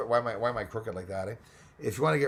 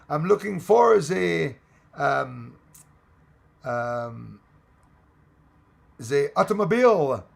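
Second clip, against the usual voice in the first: hammed-up French accent, slow and louder; mock French accent; 6 dB louder, slower than usual. Tourist faking French to ask directions, mock French accent. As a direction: fake a French accent with "ze" for "the", slowly. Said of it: "just use a French accent or something".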